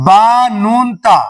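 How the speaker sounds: very slow, drawn-out "با نون تا"; slow mock error "با نون تا"; kids' misreading. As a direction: spell out "با نون تا" as pupils wrongly do. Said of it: "اس کو بچے کیا بولتے ہیں".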